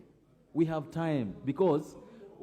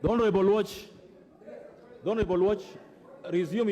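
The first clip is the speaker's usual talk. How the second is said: calling a name loudly; 2 semitones higher, 3 dB louder than usual. Real, not acted. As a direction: call him out across the room. Speaker calls out a member.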